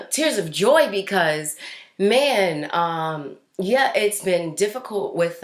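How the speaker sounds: steadying herself after crying; real lingering tears of joy; still teary. Real, not acted. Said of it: "this is really just tears of joy".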